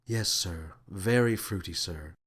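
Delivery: low, soft, bored reply; deadpan. Acted. Thlaley humoring the captain, dry and bored. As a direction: humor him with an eye roll. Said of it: "gave the slightest of eye rolls".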